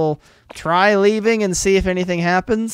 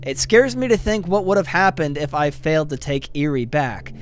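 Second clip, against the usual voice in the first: story narration; 2 semitones lower than usual. Acted. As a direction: read the ending like a storyteller. Reads story epilogue text.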